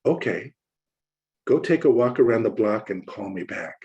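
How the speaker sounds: calmly. Retold or imitated. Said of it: "she just very calmly said".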